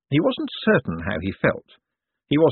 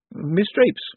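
dreamily; 9 semitones higher than usual. A narrator's reading. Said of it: "said Mister Bent dreamily".

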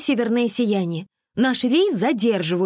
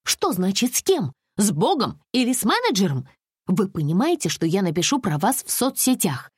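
higher, huffy indignant complaints; making a scene; 7 semitones higher than usual. A narrator's reading. Alisa makes a phone scandal with the tour manager, huffy and high. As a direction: threaten like a spoiled customer. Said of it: "Алиса была готова к скандалу".

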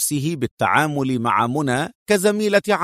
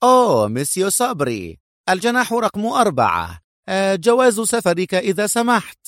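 high-pitched, eager hotel clerk; effusive receptionist, pitched up; welcoming exclamation; 7 semitones higher than usual. A narrator's reading. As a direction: greet a valued guest with lively courtesy. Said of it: "ثم صاح بلهجة مرحبة".

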